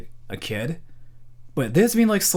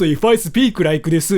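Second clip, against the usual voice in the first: exaggerated Japanese accent; 3 dB louder than usual. Shown as a demonstration. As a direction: drag it out in thick Japanese-accented English. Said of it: "like, I sound Japanese".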